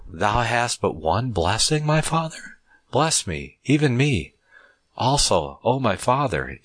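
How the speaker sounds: a rising, pleading cry to the father, pitch jumping up on my father; pleading lament. Acted. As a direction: beg for the blessing with a touch of tears. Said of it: "Esau lifted up his voice and wept".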